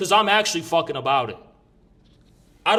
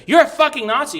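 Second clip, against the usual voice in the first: mocking accuser; 8 semitones higher, 5 dB louder than usual. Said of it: "he's like".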